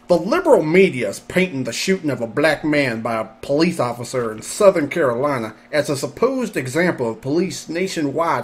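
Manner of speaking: put-on hick Southern accent reading; deep south accent. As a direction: read it like a redneck. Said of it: "what should I make this person sound like?".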